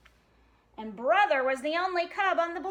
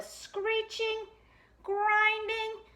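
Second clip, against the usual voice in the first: slow dramatic stop; 5 semitones higher, 8 dB louder, much slower than usual. A narrator's reading. Reading to a child, stretches the stop out loud and slow. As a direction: drag out sudden stop slowly and loudly.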